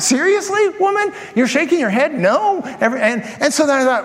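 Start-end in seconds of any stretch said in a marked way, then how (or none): 0.0-2.6 high, exasperated disbelief, half shouted; mock-indignant, as if offended mid-sermon; incredulous outburst. Pastor silently scolding a head-shaking listener, incredulous. Pastor retells his irritated thought.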